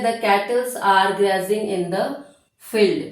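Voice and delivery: very slow, word by word; slow dictation. Shown as a demonstration. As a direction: read it out for notes. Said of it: "dictating example slowly".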